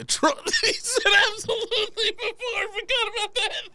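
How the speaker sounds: reading collapses into high, squealing laughter; cracking up. Real, not acted. Host rereading the email and bursting into laughter. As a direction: start reading, then lose it completely. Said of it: "I'm laughing at the word atrocious".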